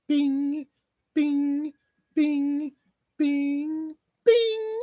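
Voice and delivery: very high, evenly spaced bings; high falsetto chime noises; imitated countdown bings. Imitates a five-second countdown chime.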